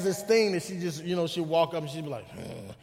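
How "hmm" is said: low grumbling "hmm"; mock growl. Dad imitating his daughter's greeting, low mock growl. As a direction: grunt it like a sulky puppy. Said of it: "she just growls all the time".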